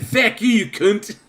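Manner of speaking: mock Irish accent, high, slow and laughing; a garbled Irish-ish accent with a laugh; botched Irish accent. Host redoing his drunk Irish accent for chat, laughing. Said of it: "what the fuck was that accent meant to be".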